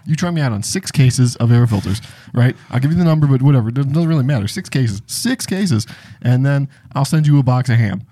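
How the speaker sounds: lightly voiced salesman patter; pushy sales rep. Sales rep pitching air filters with free ham, mildly pushy. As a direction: roll through a pitch as if nothing could stop you. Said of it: "perfect impression of exactly what these people are".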